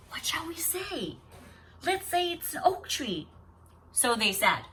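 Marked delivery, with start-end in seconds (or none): 0.1-3.3 hushed, urgent whisper. Acted. Sisters secretly conferring so the sister can't hear, hushed whisper. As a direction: whisper a panicked plan to each other. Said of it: "they whispered".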